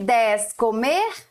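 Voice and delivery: ordinary talk, nothing marked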